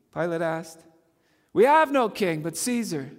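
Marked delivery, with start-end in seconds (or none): 1.5-3.1 loud raised retort; priests' retort. Retold or imitated. Preacher voicing priests answering Pilate loudly. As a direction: fling it back as the priests. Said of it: "the chief priests answered".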